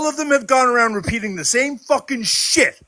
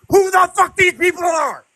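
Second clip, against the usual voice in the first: real fury, raised and higher; raging, repeating the words hot; angry shout; 6 semitones higher than usual. Real, not acted. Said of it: "Oh, I'm so angry".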